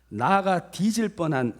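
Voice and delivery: loud put-on Jeolla accent; imitated Jeolla speech; Jeolla dialect. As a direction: declaim it in earthy Jeolla dialect. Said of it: "전라도 버전이라서 다소 과격한 표현들이".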